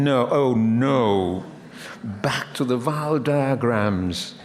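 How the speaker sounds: slow, drawn-out mock groan; mock groaning student. Imagined student groans at the lecturer, mock whining slowly. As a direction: whine like a bored student at vowel diagrams. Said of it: "I could hear somebody saying".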